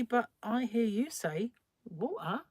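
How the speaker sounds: "water" with the t dropped; child's retort. Retold or imitated. Child answering mother back, "water" without its t. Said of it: "And I'd say".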